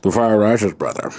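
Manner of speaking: very low villain impression; Bane. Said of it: "Is that Bane?".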